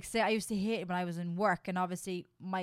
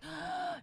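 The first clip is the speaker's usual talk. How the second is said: sharp, high intake of breath; stifled gasp; 8 semitones higher, 7 dB quieter than usual. Retold or imitated. Host acting out a stuffy car, gasping for air. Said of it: "It's the stuffiness".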